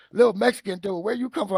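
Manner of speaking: lightly voiced big linebacker; teasing linebacker. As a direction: rib the little guy playfully.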